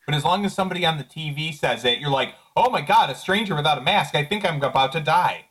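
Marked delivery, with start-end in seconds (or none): 2.6-5.4 hammed-up alarm, higher pitched; mocking gasp of dread, starting high and easing down; mock panic. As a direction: imitate someone overreacting in fright. Mocking people panicking at unmasked strangers.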